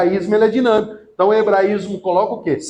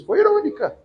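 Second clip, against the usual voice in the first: plain; 11 semitones higher than usual. Shown as a demonstration. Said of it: "A Marta foi o quê com Jesus?".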